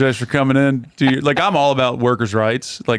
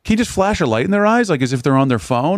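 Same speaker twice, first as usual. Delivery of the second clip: incredulous retold plea; 8 semitones higher than usual. Retelling complaint to the usher.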